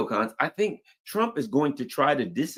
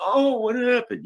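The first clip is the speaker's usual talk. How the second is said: groggy; 13 semitones higher, 4 dB louder than usual. Retold or imitated. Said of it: "he wakes up".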